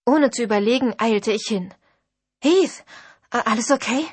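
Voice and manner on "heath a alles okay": startled call. Acted. Rushes to fallen Heath.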